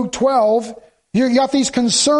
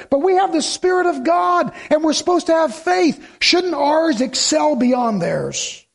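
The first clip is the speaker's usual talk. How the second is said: raised, higher preaching cry; preaching shout; 5 semitones higher than usual. Real, not acted. Preacher urging congregation about faith, raised preaching shout. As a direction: lift it up and call it out.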